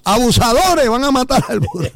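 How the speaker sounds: high-pitched cry of mock alarm; passerby's scolding shout. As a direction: imitate an outraged onlooker accusing them. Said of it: "para que la gente no gritara y salió otro".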